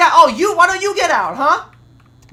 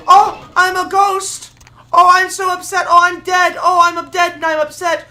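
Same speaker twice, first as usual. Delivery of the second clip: mock ghost whining. Gamer mocking the angry ghost with fake moans and growls. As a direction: whine like a sulking ghost.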